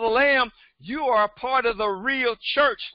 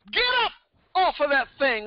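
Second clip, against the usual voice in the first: mock soul-singer call, Get up pitched way up; a soul singer's shout; 2 semitones higher than usual. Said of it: "like James Brown".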